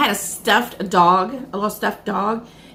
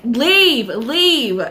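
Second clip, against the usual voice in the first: commanding yell; 3 semitones higher, 4 dB louder than usual. Retold or imitated. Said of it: "And I was like".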